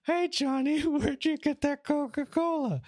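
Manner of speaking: high, put-on cartoon kid voice; squeaky mock kid asking a buddy; kid in the scene. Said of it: "Hilarious idea".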